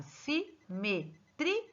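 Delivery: simetria split si-me-tri-a, with pauses; syllable by syllable. Shown as a demonstration. Teacher shows the class how to divide simetria, syllable by syllable. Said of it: "eu tenho que separar".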